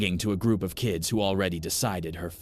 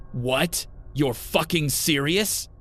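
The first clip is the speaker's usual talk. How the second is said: disbelief; 8 semitones higher, 3 dB louder, slower than usual. A narrator's reading. Brother disbelieves the accusation.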